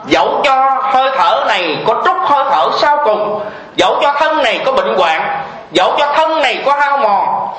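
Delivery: slow, fervent recited vow; prayerful devotional recitation; solemn vow. Acted. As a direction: pledge it before the Buddha.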